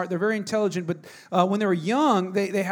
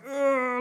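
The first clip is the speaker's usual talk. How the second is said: higher, strained mock grunt of effort; 5 semitones higher than usual. Dad faking a thumb pull for his sons, mock strain grunt. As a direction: fake the effort of pulling. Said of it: "I'm like".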